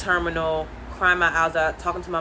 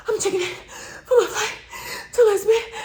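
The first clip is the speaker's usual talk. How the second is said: high, louder, voice breaking into tears; crying plea; 13 semitones higher, 3 dB louder than usual. Retold or imitated. Traveler begging the gate agent, near tears. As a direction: choke it out through sobs.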